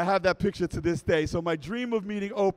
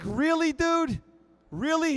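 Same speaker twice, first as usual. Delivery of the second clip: incredulous; 8 semitones higher than usual. Retold or imitated. Incredulous at Wade.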